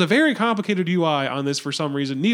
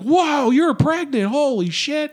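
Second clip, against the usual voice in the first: mock gushing; 7 semitones higher, 4 dB louder, slower than usual. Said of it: "not allowed to say".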